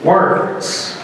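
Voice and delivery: slow, weighty phrases with long pauses; formal oratory. Real, not acted. Speaker crediting famous words to an audience, formal oratory. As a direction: let each phrase hang before the audience.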